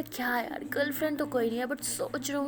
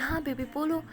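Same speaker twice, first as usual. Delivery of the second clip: mock angry; 4 semitones higher than usual. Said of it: "تو ایسے غصے سے بولتی ہے".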